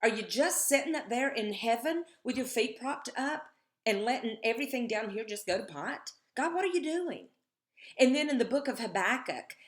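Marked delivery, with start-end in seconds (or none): 0.0-7.3 raised, pleading cry to heaven; crying out to God. Retold or imitated. King David crying out to God, raised and pleading. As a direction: call up to God, demanding answers. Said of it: "David just cries out to God".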